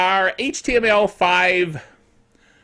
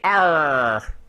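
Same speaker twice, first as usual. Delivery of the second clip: a quick hammed-up pirate arr; a viewer hams up a pirate arr for a free donut; pirate growl; 5 semitones lower than usual. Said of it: "Talk Like a Pirate Day".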